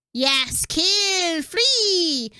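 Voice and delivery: high, loud freed-prisoner cry; exultant shout; triumphant cry. Acted. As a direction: yell it in wild triumph. Thrall's freed cry in story.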